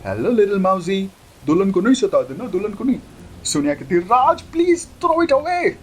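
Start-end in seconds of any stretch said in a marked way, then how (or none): 0.0-3.0 playful sweet coo; baby talk. Acted. Talking sweetly to mouse. 4.0-5.7 very high, slow wailing please; shrill drawn-out cry; screaming plea. Acted. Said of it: "चिल्लाना बंद करो".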